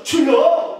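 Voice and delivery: sudden loud, high cry to the Lord; demonstrated prayer shout; calling out. Shown as a demonstration. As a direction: shout it as a reflex in trouble. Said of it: "이렇게 하는 거예요".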